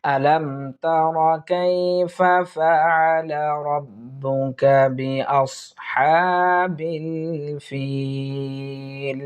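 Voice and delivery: slow, drawn-out recitation of the verse; demonstrating the verse in slow chanting style. Shown as a demonstration. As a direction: chant the whole verse slowly, pausing at the end. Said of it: "আমরা পুরো আয়াতটি এভাবে পড়ব".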